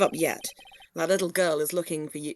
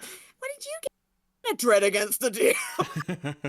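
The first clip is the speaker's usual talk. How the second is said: slow, laughing little mouse voice; tiny mouse voice; much slower than usual. Retold or imitated. Retelling a player hearing the mouse character's voice. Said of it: "what I have in my head as a tiny little mouse".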